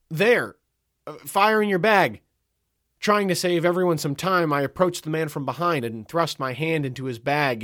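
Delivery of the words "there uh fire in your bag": high, loud accusing call. A narrator's reading. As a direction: point out the culprit to the whole line. Narrator calls out the culprit.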